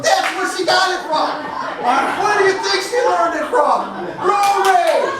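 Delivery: high, pointed exclamation; exclaimed realisation. Retold or imitated. Wife catching dad swearing on the road, mock accusing. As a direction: pounce on the culprit in mock accusation.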